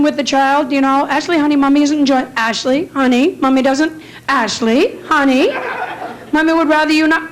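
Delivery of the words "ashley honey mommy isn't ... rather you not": sweet pleading mom. Retold or imitated. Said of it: "the kind of parent that tries to reason".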